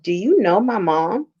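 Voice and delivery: lightly voiced puzzled little boy, rising at the end; mild imitation of a confused kid's question; confused child. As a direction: ask it like a baffled five-year-old. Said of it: "He was so completely confused and went".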